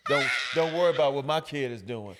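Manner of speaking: mock parent shouting. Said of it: "the parent was like".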